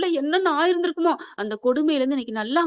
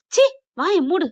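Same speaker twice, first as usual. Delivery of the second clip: angry snap; 5 semitones higher, 4 dB louder, slower than usual. Acted. Sister-in-law silences Rasathi.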